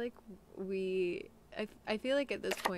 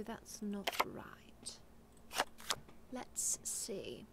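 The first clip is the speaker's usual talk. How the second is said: whispering; 3 dB quieter, much slower than usual. Real, not acted. Whispering to viewers.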